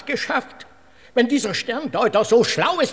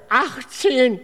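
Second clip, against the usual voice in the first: ecstatic cry; 4 semitones higher, 3 dB louder than usual. Retold or imitated. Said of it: "rief er in Ekstase".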